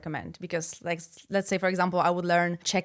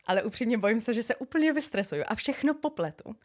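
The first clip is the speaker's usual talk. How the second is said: mixed language shuffle. Shown as a demonstration. Playing language shuffle, switching languages mid-sentence. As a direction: slide between Polish and Czech mid-sentence. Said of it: "you have to trick me".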